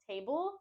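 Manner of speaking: table as a full, stressed TAY-bull; mistaken stressed ending. Shown as a demonstration. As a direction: say table as the wrong ending of comfortable. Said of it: "stress and emphasis on the last two syllables".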